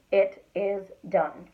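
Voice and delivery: "It is done" stretched out word by word; slow, emphatic "It is done"; deliberate. Shown as a demonstration. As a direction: spread "It is done" out to make the point. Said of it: "spread it out deliberately".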